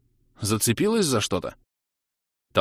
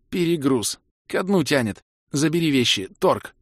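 spluttering out; 6 semitones higher than usual. Acted. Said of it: "Кира выдавила".

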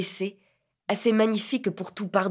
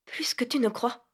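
higher soft whisper; soft whispered reply; same low tone; 5 semitones higher, 4 dB quieter than usual. A narrator's reading. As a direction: whisper it back. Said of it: "sur le même ton".

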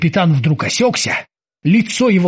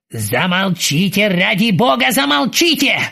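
groaning plea; 4 semitones higher than usual. Acted. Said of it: "простонал капитан".

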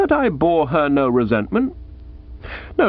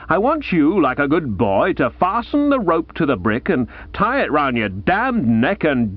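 mildly bitter aunt; 3 semitones higher than usual. Acted. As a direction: wish him drowned with cold relish. Aunt Dahlia voiced in narration.

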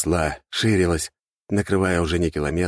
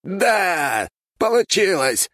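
manic triumph; 10 semitones higher, much slower than usual. A narrator's reading. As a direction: gloat almost laughing. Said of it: "Он хохотал".

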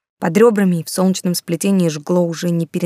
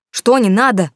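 short raised snap of a question; sharp shout; 4 semitones higher, 5 dB louder than usual. A narrator's reading. Timur cuts off Marina, a raised shout. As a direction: snap at her, louder. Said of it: "прикрикнул я".

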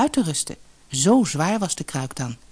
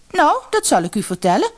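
angry; 10 semitones higher than usual. Acted. Angry daughter to mother, high cross reply. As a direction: snap back sourly. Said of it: "antwoordde de dochter boos".

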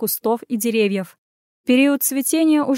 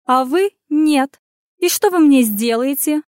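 taunting; 4 semitones higher, 4 dB louder than usual. Acted. Taunting the overseer.

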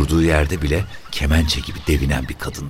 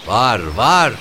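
high, raised shrill reply; shrill, angry woman; 8 semitones higher, 4 dB louder than usual. A narrator's reading. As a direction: answer back sharply in a shrill angry voice. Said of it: "öfkeli bir kadın sesi geldi". (cırlak, öfkeli kadın sesi)

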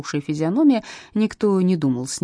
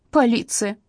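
scornful snort; 6 semitones higher, slower than usual. A narrator's reading. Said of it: "фыркнула Жанна".

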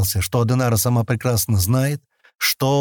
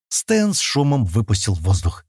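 plain reading voice

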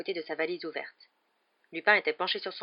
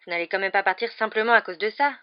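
protestation vive et appuyée; s'insurger contre le départ; exclamation indignée; 4 semitones higher, 8 dB louder than usual. A narrator's reading. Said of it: "s'exclama Harry". (Harry proteste auprès de Lupin, ton exclamatif)

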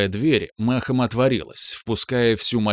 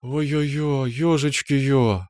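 mild sigh; 3 semitones higher, much slower than usual. A narrator's reading. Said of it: "вздохнула мама".

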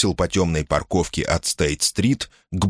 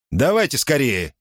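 impatient call, raised pitch; displeased shout; 6 semitones higher than usual. Acted. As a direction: shout with annoyance. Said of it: "недовольно крикнул Бетс".

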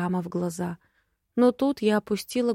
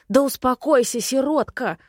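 backing off, placating; 5 semitones higher, 4 dB louder than usual. Acted. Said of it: "пятился Ровен".

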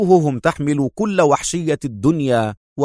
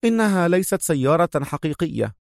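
a touch higher female voice; the major answering, lightly higher; lightly voiced woman; 5 semitones higher, 4 dB quieter than usual. The major explaining the car, a touch higher.

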